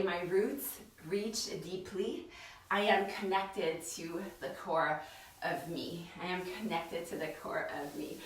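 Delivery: low, soft, measured mantra; calm, hushed affirmation; mantra recitation. Real, not acted.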